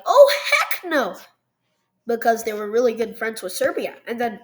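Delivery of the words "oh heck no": higher, giggling mock protest; laughing mock outrage. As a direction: blurt it out through a laugh. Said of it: "the Russians were like".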